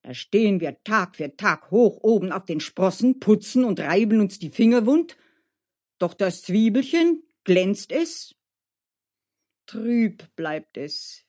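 lightly voiced indignant servants; grumbling servants. (leicht aufgebrachtes Klagen der Diener)

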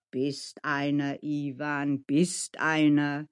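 calm him down, drawing out the words; soothing. Acted. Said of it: "Mascha strich ihm besänftigend". (besänftigend, langsam)

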